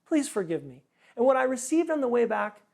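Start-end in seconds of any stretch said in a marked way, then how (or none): 0.0-0.8 high, laughing, hammed-up apology to the whole line. Pastor apologizing to the waiting line, laughing and high. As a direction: beg forgiveness while laughing at yourself. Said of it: "I looked at the line and I went".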